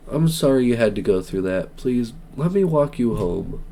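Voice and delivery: low, soft kind offer; softly voiced kind Colonel Sanders; gentle consoling. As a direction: comfort a shaken student.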